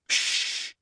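soft, voiceless hush; desperate shushing. A narrator's reading. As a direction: shush a friend before others hear. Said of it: "said Hermione desperately".

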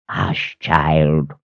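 soft, soothing hush; calm her gently; comforting. Acted. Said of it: "he comforted".

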